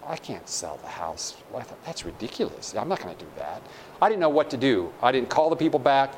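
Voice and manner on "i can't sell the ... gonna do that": hushed inner thought. Retold or imitated. Retold inner thought, dismayed.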